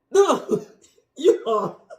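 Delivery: high, loud shriek breaking into laughter; excited screaming. Real, not acted. Plant owner showing viewers her surprise discovery, screaming and laughing. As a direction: laugh and squeal in disbelief. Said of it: "I'm sorry if I screamed".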